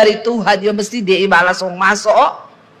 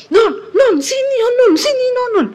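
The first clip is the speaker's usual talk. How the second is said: frantic yelling; 12 semitones higher than usual. Retold or imitated. Husband yelling for his wife to come see the screen, frantic and high. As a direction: yell like a man possessed. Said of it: "dia teriak, saudara, kayak orang kesetanan".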